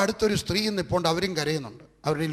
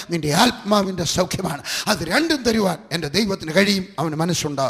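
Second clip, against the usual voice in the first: louder impassioned sermon delivery; full-force preaching; 3 dB louder than usual. Acted. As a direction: proclaim it with conviction. Preaching climax on healing.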